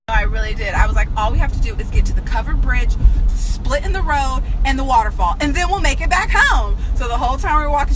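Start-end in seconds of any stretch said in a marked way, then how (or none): 1.2-6.8 lightly voiced children's show host; kids' show host pep talk. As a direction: encourage a child, lifting toward the end. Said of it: "gave her some Blue's Clues Discovery".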